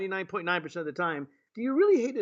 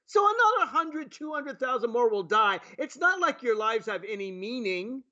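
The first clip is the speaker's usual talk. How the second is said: mock president; 4 semitones higher than usual. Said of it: "our president says".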